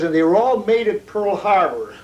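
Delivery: chuckling through the last words; laughing punchline. Retold or imitated. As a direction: let a laugh break into the punchline. Punchline of his prisoner anecdote.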